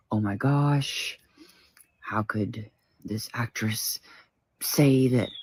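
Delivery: hushed imitation of a shocked fan; mock outraged fan. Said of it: "Blah, blah, blah".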